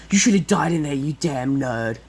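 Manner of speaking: acted insult; Bakugo. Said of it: "He goes like".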